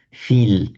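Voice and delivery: tongue tip forward for a light l in Feel. Shown as a demonstration. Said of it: "light l in Irish".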